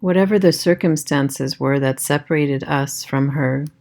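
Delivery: calm meditation voice with long pauses; guided meditation. Acted. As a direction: guide them gently inward, leaving space after each phrase.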